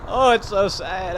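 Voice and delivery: drawn-out, slightly high lament; a slow, hammed-up mournful wail; mock sorrow. Player lamenting the boss's death, mock sorrow.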